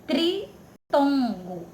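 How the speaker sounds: Tritongo stretched out slowly, tri lingering; slow deliberate Tritongo; slow, drawn out. Shown as a demonstration. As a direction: draw out Tritongo so they hear tri. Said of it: "Esse tri lembra que número?".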